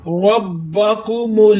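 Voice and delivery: रब्बाकुमुल्लजी recited with the ii stretched one count; tajweed reading of रब्बाकुमुल्लजी with a long final vowel; Quran recitation. Shown as a demonstration. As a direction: chant रब्बाकुमुल्लजी, drawing out the final ii. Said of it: "इस लफ्ज़ को ऐसे पढ़ेंगे".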